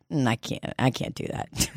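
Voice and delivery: low, hushed, halting voice; meek refusal. Retold or imitated. Client declining group therapy, meek and hushed. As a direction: refuse almost under the breath.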